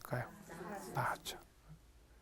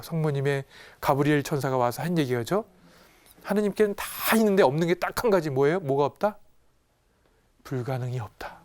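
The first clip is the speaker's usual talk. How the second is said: ordinary talk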